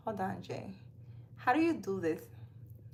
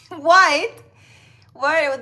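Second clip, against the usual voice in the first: surprised; 6 semitones higher, 12 dB louder than usual. Real, not acted. Viewer asks what's wrong with her.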